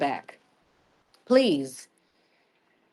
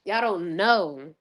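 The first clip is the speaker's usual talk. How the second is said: drawn out; slower than usual. Real, not acted.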